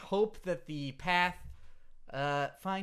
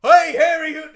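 put-on very loud, high British accent yell; 10 semitones higher, 18 dB louder than usual. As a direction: bellow it in a hammy British voice. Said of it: "a British guy who sounded just like this".

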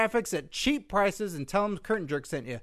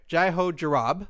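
fast name. Shown as a demonstration. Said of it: "say that a little fast now".

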